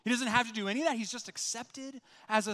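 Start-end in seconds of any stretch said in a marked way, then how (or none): none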